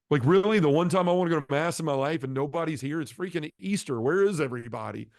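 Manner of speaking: incredulous complaint at being let down; exasperated disbelief. Retold or imitated. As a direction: replay an upset, disbelieving outburst. Acted outburst crying at empty church.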